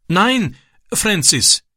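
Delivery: high, pleading plea. A narrator's reading. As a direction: beg him not to go, voice up high. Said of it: "flehte er".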